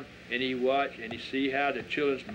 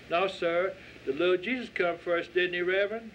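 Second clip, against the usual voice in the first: put-on eager child; 5 semitones higher than usual. Child Christine appeals to Reverend.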